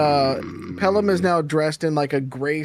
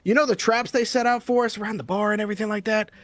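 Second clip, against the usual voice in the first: higher joke-telling voice; comic telling rat joke; 4 semitones higher than usual. Acted. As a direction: hype the rat's toughness. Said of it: "he goes".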